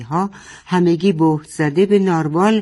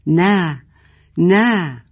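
light shout; 3 semitones higher, 4 dB louder, much slower than usual. Acted. Boteh wrestling her father, shouting no. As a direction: cry out while struggling. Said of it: "یک نفس فریاد زد".

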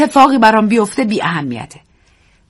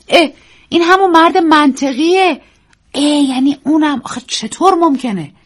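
surprised exclaim; 9 semitones higher, 4 dB louder than usual. Acted. Narrator startled seeing rhino friend.

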